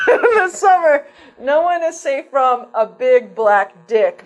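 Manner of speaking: slow, dramatic movie trailer voice; horror trailer voice. Pretend. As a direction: deliver it like an ominous trailer. Mock horror trailer read.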